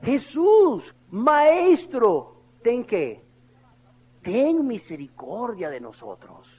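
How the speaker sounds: crying out. Acted. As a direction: call out to be heard from afar. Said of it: "alzaron la voz diciendo".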